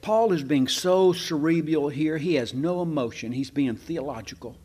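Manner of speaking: lightly sarcastic, mock-serious; understated ironic preacher. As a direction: say it deadpan, not meaning a word. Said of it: "I'm gonna be sarcastic".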